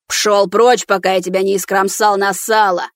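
loud menacing shout; threatening yell. Acted. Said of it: "с угрозой вскричал".

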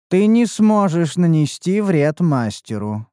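slow, even, no feeling; monotone voice. Acted. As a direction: keep every word level. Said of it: "продолжил монотонный голос".

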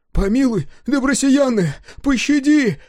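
high, loud begging in terror; terrified plea. A narrator's reading. Woodcarver begs the sun for mercy, terrified. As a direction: plead for mercy, voice climbing in fear.

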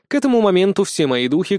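ordinary delivery

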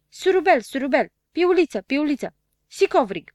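high, loud nasal playback voice with hissed s; lisping nasal machine. A narrator's reading. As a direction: squeal it back like a lisping talking machine. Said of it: "sâsâi cu o voce fonfăită". (voce fonfăită și sâsâită, de aparat)

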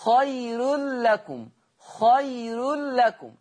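خير لكم slow with light ra; Warsh thin ra. Shown as a demonstration. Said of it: "حين الوصل بورش".

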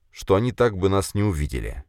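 ordinary delivery

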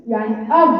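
أب with ض held and softly cut; dad sound demo. Shown as a demonstration. Teacher testing whether ض has flow, said quietly. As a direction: let ض flow a little, then stop. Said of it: "هي فيها قطع خالص".

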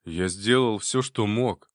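mildly indignant reply. Acted. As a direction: push back with mild outrage. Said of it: "возмущённо ответил Валера".

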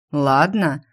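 a touch of mockery, lightly voiced Rion; mocking. Rion echoing her answer, mildly mocking. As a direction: raise an eyebrow and tease the word back. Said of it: "насмешливо приподнял он бровь".

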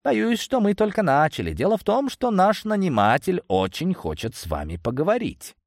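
high mocking thug voice; bandit leader voice. A narrator's reading. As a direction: voice him as a smug gang boss.

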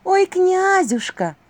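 медленно, высоко, нараспев; протяни сладко и притворно; притворная ласка. A narrator's reading. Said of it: "услышала она собственный голос". (двойник притворно зовёт князя, протяжно и высоко)

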